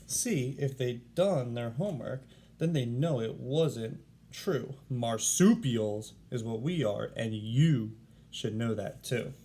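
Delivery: a lightly voiced koala schooling the reader; lecturing koala. Warren's rhyme to the class.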